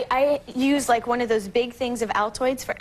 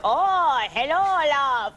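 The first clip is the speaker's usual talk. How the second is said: drawn-out mock leprechaun greeting; retold leprechaun greeting; much slower than usual. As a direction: imitate the odd leprechaun, slowly. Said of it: "this guy shows up".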